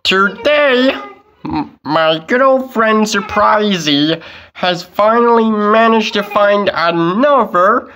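announcer voice. Acted. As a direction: announce the unboxing brightly. Toy unboxing announcer.

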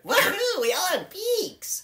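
cheering with a laugh; excited cheer. Acted. Friend cheering the bird ancestry, excited. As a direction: whoop it up, then slow down on the boast.

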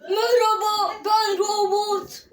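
slow, stretched robot voice. Pretend. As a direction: speak like a toy robot. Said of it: "robot sesini aç".

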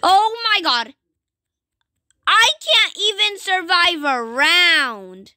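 startled high exclamation; shocked. Real, not acted. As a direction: gasp it out in shock. Dying in the game.

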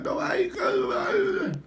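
high-pitched drawn-out wail imitating sister; mock crying. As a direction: whine it out in exaggerated tears. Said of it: "She be crying".

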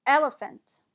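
"Elephant" with second and third vowels as uh; schwa in elephant. Shown as a demonstration. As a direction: say "Elephant" as EL-uh-fuhnt. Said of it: "second and third vowels are both pronounced as a schwa".

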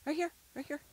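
loud, high directing call. Real, not acted. Owner guiding returning dog, calling out.

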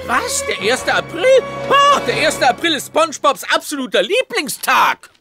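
dawning dread, mildly agitated; horrified realisation. Acted. Neighbour realising what the date is, horrified. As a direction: gasp it out in dismay. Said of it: "Er ist entsetzt".

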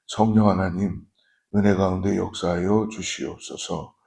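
prayer. Real, not acted.

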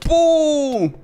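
long high falling "pum"; exclaimed boom. Real, not acted. Gamer landing a hit, high playful boom. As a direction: let a drawn-out boom drop from high.

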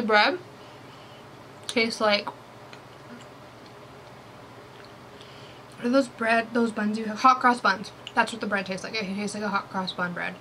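eating between words; talking while chewing. Real, not acted. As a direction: mouth partly full of bread. Seen 2: Holds and bites bread, chews between phrases, talks with food.

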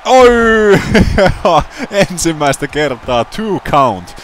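high, loud, laughing excitement; excited shouting. Real, not acted. Commentator thrilled by a near pin, high excited shouting. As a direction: yell at the near fall.

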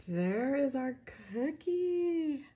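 high, drawn-out coo; sing-song cutesy reveal; cutesy showing-off. Real, not acted. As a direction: coo it slowly, showing off your little creation. Showing off the cute cookie piece.

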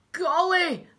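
loud, high shocked crook; high-pitched outburst in character; startled exclamation. A narrator's reading. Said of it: "And Hugh said".

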